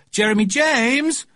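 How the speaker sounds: high, loud call up the stairs. A narrator's reading. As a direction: call him from downstairs. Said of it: "Mummy's voice rang out".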